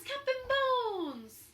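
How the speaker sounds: high, loud and slow, stretching the name; drawn-out pirates' cry. Acted. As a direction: holler it long and slow. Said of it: "The pirates took up the cry".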